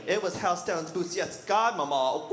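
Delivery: campy sassy little boy, lightly voiced; sassy kid. Kid telling mom about speech class, sassy. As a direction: serve it with flamboyant flair. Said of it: "And he's like".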